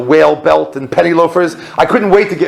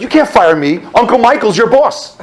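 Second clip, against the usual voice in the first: mock protest; 7 semitones higher than usual. Intern invoking Uncle Michael to HR, mock protest. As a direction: protest climbing higher to the end. Retelling his protest at firing.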